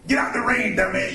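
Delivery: a hint of a gruff Redd Foxx scolding; mock scolding as Redd Foxx; Redd Foxx impression. Comedian voicing Redd Foxx scolding someone in the rain, lightly. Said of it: "Red Fox would be like".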